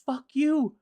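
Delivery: hammed-up villain rant, high and delighted; gloating villain. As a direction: crow it like a giddy immortal who just wins by waiting. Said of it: "So Mogul's like".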